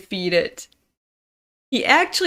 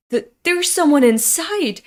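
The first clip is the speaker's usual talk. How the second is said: stammered, higher-pitched realization; mild acted alarm; 5 semitones higher, 3 dB louder than usual. Servant realizing someone is burning inside, mildly panicked. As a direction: stumble on the first word in mild panic.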